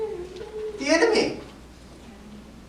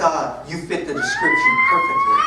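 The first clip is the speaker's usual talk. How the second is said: much higher, hammed-up cop voice; mock cop. Cop telling him he fits the description, hammed-up high voice. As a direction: play the accusing officer, overdone.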